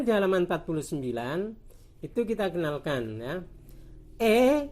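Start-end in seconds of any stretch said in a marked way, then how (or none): 4.2-4.7 "E" as a close é; "E" as in lele; close E sound. Shown as a demonstration. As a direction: say "E" like a pure "ay". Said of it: "E kadang dibaca E".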